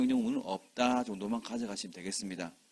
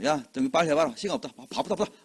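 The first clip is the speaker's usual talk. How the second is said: a bossy applicant, mildly louder at the start; rude, pushy applicant; 4 dB louder, faster than usual. Retold or imitated. Applicant throwing the form at the clerk, rude and impatient. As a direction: hurry the clerk rudely, talking down. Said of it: "반말하면 기분 나쁘잖아요".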